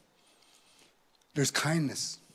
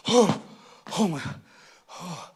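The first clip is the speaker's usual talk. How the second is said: relief after crying. Acted. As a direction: let the cry go in sighs. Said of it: "And after we cry".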